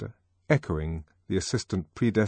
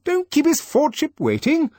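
brisk DHC; 7 dB louder than usual. Acted. DHC urging a shy boy.

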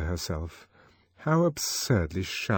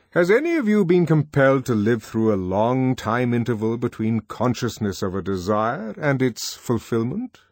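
stately controller; 4 semitones higher, 5 dB louder than usual. Acted. Mond questioning the boys.

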